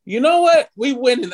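excited self-quote. Retold or imitated. Quotes own hopeful reaction to trade.

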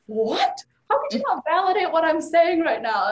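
hurt, demanding to be validated; retold indignation. To Amma who dismissed her, high loud indignant protest. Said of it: "And I was pissed".

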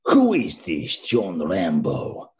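slow, heavy Russian bad-guy voice; thick Russian accent, very slow and menacing; Russian villain accent. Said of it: "the Russian guy from Rambo three".

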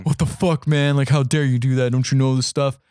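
mildly acted outrage; imitating offended man. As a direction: object as if personally insulted. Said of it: "really offended and are like".

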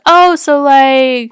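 loud, high eager interjection; friendly, happy. Retold or imitated. Tech assistant still chatting to the patient, friendly and happy. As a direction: imitate an overeager chatty assistant. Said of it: "so friendly and happy at nine A M".

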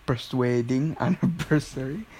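put-on Filipino-accented repeat through laughter; amused parody of a Filipino accent; mocking Filipino accent. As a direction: savor the Filipino-accent joke, P for F. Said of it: "making fun of Filipino accent".

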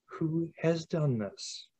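talking through a burp; burping the words. Real, not acted. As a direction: burp slips out mid-phrase. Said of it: "That was a burp".

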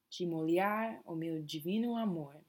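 "De" said like "dji", Rio style; de with a j sound. Shown as a demonstration. Teacher models "De" as "dji" for the class. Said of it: "the D has a bit of a j sound".

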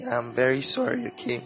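sore throat voice; sore, strained throat; swollen tonsils voice. Real, not acted. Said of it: "I currently have sore throat".

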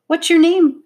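high, loud, eager blurt; sudden excited child's question. A narrator's reading. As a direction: burst out with the question. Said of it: "blurted out the dark-haired younger girl".

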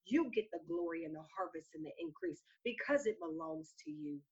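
fervent spoken prayer. Real, not acted. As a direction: plead earnestly to God, phrase by phrase. Leads a prayer.

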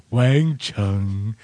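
low earnest mock of the name; imitating the host. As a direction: mimic his sincere take. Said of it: "cute and earnest right there".

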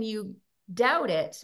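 ordinary delivery

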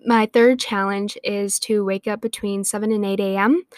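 winded, breathy delivery; talking while out of breath. Real, not acted. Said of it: "I got out of breath".

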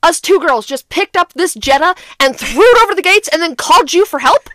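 exasperated, sarcastic questioning of an officer; retold frustration. Two girls questioning the doubting officer, frustrated sarcasm. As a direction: lay out the absurdity with pointed disbelief. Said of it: "I was so frustrated at this point".

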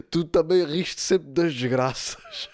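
slow, amused mock reproach; laughing retelling. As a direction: retell the scolding through suppressed laughter. Retold scolding, struggling with laughter. (repreensão contada a rir)

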